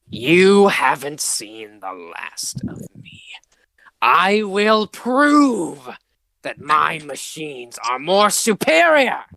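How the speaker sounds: whispered, slow villain vow; sputtering foiled villain. Acted. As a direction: hiss a parting threat while fleeing. Villain flees, vowing revenge.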